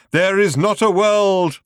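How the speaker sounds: slow, high, loud thrill. A narrator's reading. Expert showman thrills the audience with a hushed boast. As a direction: thrill them with every word. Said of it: "thrilled the man's expert voice".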